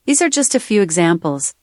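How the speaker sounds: normal talking voice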